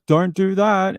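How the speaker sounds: high mock scolding; a weak plea that nobody obeys; helpless cop imitation. Cop pleading as the guy hops the fence, high mock plea. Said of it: "He's like".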